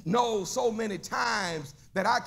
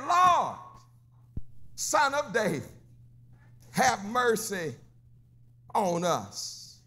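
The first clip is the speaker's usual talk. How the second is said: blind men crying out; slower than usual. Retold or imitated. Blind men calling to Jesus, a cry falling to a plea. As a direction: call out, then fall into begging. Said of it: "They said".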